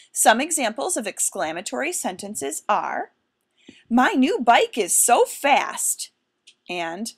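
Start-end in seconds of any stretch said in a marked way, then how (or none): 3.9-6.1 slow, emphatic and a bit louder; excited statement. Shown as a demonstration. Teacher showing an exclamatory sentence, slow and emphatic. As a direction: savour each word like thrilling news. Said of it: "express a strong feeling".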